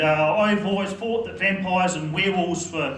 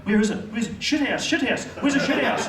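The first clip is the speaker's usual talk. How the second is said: desperate searching; 4 semitones higher than usual. Acted.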